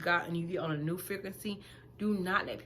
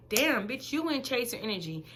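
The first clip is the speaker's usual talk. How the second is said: self-scolding; 5 semitones higher than usual. Retold or imitated. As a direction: snap yourself out of it. Scolding herself for checking.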